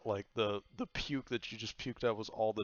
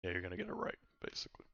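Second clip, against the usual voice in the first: soft unvoiced aside; whispered hint; 2 semitones lower, 5 dB quieter, much faster than usual. Real, not acted. Game master whispers the outcome to the player, hushed aside. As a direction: lean in and whisper it.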